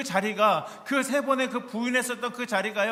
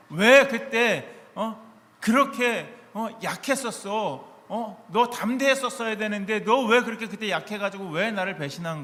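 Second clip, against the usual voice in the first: scolding rebuke; 6 dB louder than usual. Pretend. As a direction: drag it out like a stern reproach to a failed disciple. Imagined rebuke of Peter.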